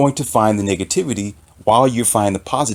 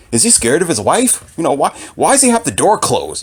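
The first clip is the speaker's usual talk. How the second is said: higher, mocking nitpicks; petty commenter; 5 semitones higher than usual. Imitating commenters mocking a computer tutor, higher. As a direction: mimic commenters picking at his room and nails. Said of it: "five people talking about".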